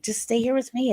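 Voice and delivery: high pleading plea. Retold or imitated. Mother begging her angry children to stay, high pleading. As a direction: beg them, voice lifted high.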